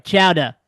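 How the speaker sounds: "Chowder" con la r caduta, chowdah; chowder, New England style. Shown as a demonstration. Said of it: "We didn't say it right".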